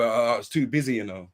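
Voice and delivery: lightly voiced lame excuse, low, you know fading to almost nothing; mock excuse. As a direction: mimic a viewer making excuses, mildly whiny. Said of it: "you're gonna probably say".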